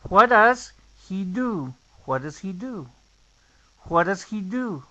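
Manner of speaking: "does he" reduced to "dasi", h barely heard; linked "What does he do". Shown as a demonstration. Teacher modelling the reduced natural question. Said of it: "entonces queda".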